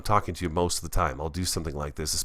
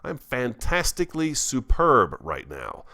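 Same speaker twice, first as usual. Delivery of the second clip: slow playful boast; 4 semitones higher, slower than usual. Shown as a demonstration.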